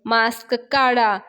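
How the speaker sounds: slow, drawn-out mock order; mild mock yell, each word stretched; retold yell. Angry man orders her to unmask, retold yell. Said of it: "पाहण्या तिच्यावर ओरडतो आणि म्हणतो".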